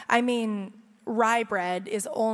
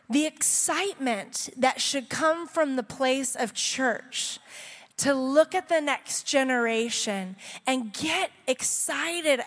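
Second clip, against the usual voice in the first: preaching. Acted. Preaching message on following.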